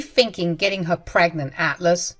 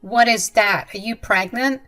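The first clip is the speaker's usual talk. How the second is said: a startled, louder demand to know; mother-in-law spotting the belly, startled; shocked question; 3 semitones higher, 5 dB louder than usual. Acted. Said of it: "She pointed at my belly and said".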